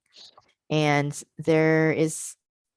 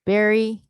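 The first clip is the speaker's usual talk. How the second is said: "berry" called out higher and louder for the class to repeat; teacher model word; 6 semitones higher, 6 dB louder than usual. Shown as a demonstration. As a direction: say "berry" loud and high like a model for repetition. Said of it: "they'd repeat after me".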